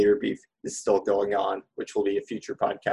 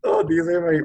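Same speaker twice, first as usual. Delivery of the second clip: much higher, anguished squeal; excited squeal; 3 dB louder, slower than usual. Real, not acted. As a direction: squeal it out in dismay. Fan torn between two heroes.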